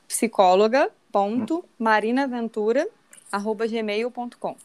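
slow, careful email dictation. Shown as a demonstration. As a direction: spell it out slowly for listeners. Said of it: "Repete aí pra, pra galera pegar". (ditando devagar o e-mail)

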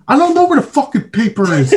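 high-pitched mock snap, laughing; a laughing impression of snapping at his wife. Retelling snapping at his wife over paper, laughing high snap. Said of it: "I would've snapped and said".

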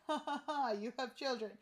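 mock laugh. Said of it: "He keeps laughing".

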